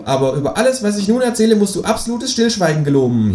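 high, insistent kangaroo voice; solemn kangaroo. Acted. Kangaroo makes the narrator swear secrecy, high insistent creature voice. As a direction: demand an oath in a high creature voice. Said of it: "sagt das Känguru".

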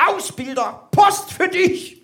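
very high, drawn-out female caricature; excited wife. Acted. Wife running in with the mail, high calling voice. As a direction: call it out high and shrieky from the door. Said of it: "kommt meine Frau reingerannt".

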